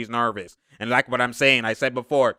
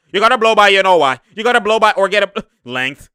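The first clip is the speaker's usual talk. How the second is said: emphatic coaching; 5 semitones higher, 7 dB louder than usual. Real, not acted. Coaching repeated louder.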